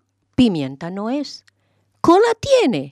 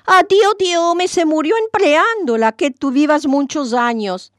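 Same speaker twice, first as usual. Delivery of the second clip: mock lament; 7 semitones higher than usual. A narrator's reading. Yohá feigns grief for pot.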